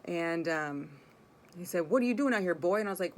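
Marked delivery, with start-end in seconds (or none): 1.9-2.8 mock taunting call. Truck driver confronting her.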